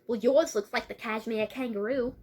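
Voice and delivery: lightly put-on Australian accent. Blue countering her friend about the bedroom, Australian accent. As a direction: voice an Aussie girl countering a friend. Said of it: "I keep forgetting to do the accent".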